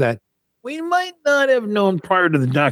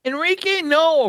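surprised; 13 semitones higher than usual. Real, not acted. Incredulous at the question.

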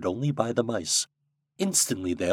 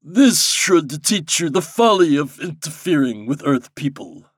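loud, raised, scolding monarch; frowning king; 6 semitones higher, 7 dB louder than usual. A narrator's reading. King of the Nukes scolding Popopo, sternly. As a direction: rebuke with grand emphasis. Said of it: "The king frowned".

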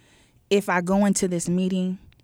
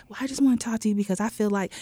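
polite office voice; 2 semitones higher, 4 dB quieter, much faster than usual. Retold or imitated. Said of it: "You was not gonna be like".

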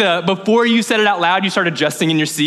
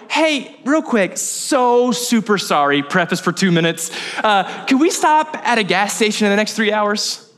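awkward apologetic ask. Acted. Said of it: "you go".

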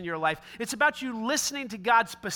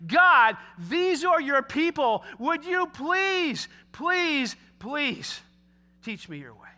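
pleading prayer; 4 semitones higher, slower than usual. Retold or imitated. Preacher voicing Moses' anxious prayer.

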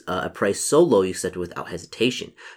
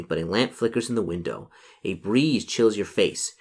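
story narration. A narrator's reading. Narrator setting the gloomy lane scene for the player, story narration. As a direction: read the scene out, lingering on phrases. Reads gamebook scene aloud.

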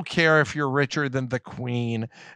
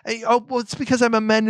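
put-on higher Valley Girl with a little attitude; sassy character voice that stalls on the last word; Tonks as Valley Girl; 7 semitones higher, 4 dB louder, faster than usual. Shown as a demonstration. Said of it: "Tonks I've decided to give s-, sort of Valley Girl".

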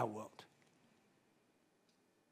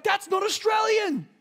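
indignant outcry; 11 semitones higher, slower than usual. Retold or imitated. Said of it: "We'd be like".

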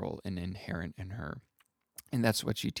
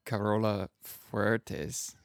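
best-effort Spanish pronunciation, drawn out slowly; attempted Spanish accent; slower than usual. Real, not acted. Host introducing guest Carola Fuertes, attempted Spanish accent. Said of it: "that's my best Spanish accent".

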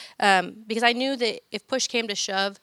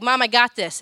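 confident daughter; 2 semitones higher, 7 dB louder than usual. Retold or imitated. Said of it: "her daughter's like".

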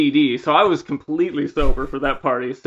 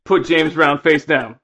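loud laughing rant; angry drunk yell; 4 dB louder, slower than usual. Retold or imitated. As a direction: demand it loudly. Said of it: "drunk friend's rant, retold".

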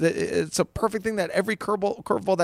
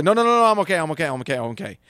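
anxious self-talk; much faster than usual. Retold or imitated. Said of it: "Instead of trying to have the need of certainty".

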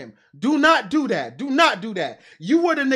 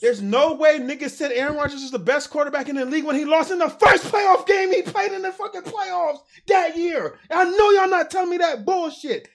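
holding back a shout; 4 semitones higher, 4 dB louder than usual. Real, not acted. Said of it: "I'm trying not to yell".

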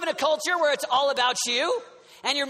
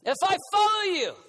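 Peter asking. Pretend.

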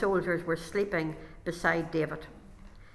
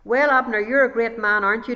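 taunting; 2 semitones higher, 7 dB louder than usual. Acted. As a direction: rub it in with fake admiration. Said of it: "David taunted".

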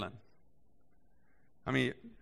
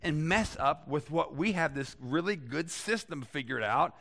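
a hint of smug priests, rising higher and louder; defensive religious leaders; 4 semitones higher, 3 dB louder than usual. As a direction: play the leaders brushing Jesus off. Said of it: "In other words".

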